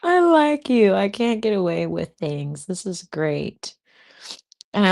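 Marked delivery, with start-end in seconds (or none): 0.0-3.8 a burst of giddy delight that slows down at the end; excited squeal. Retold or imitated. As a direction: gush like a smitten girl. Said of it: "I was also like".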